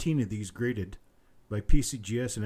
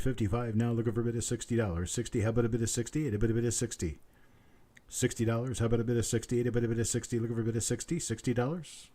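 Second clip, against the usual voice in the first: quick steady auctioneer patter; auction bid calling; faster than usual. Acted. Auctioneer calls for the next bid in brisk patter. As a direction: keep the bids rolling like an auctioneer.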